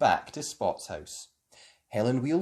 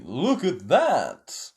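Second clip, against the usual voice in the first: slow, louder excited call; mock shout; 5 dB louder, much slower than usual. A narrator's reading. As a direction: draw out the excitement. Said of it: "shouted Tom".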